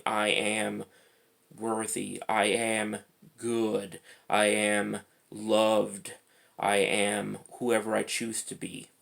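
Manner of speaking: measured affirmations with pauses between phrases; affirmation recital. Retold or imitated. Guide speaking affirmations in your ear, measured recital. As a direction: recite each affirmation evenly, letting it settle. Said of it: "having someone in your ear saying".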